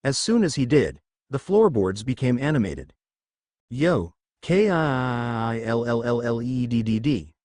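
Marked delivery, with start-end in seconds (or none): 3.7-7.3 slow, dragged-out ghostly floorboard voice; eerie whisper. A narrator's reading. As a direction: stretch each letter like a haunting. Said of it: "it whispered".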